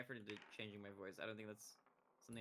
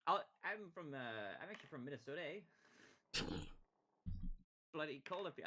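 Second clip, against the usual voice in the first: mock Minnesota American accent; badly faked American accent; 4 semitones higher than usual. Shown as a demonstration. Streamer claiming to be from Minnesota, bad American accent. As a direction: attempt a lilting Minnesotan and miss. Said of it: "I can't sound American, okay?".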